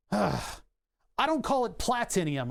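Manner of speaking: platinium drawn out very slowly with the extra syllable; sarcastic, slow platinium; dragged-out mock platinium. Shown as a demonstration. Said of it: "extra consonants in it".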